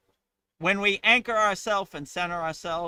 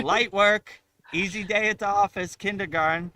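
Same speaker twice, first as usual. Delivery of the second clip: higher, louder cocky boast; cocky taunt; 5 semitones higher, 5 dB louder than usual. Pretend. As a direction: brag it off as easy. Taunting fear.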